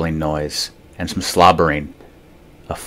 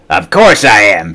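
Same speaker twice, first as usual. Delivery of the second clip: snapping; 2 semitones higher, 6 dB louder than usual. Acted. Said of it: "she snapped".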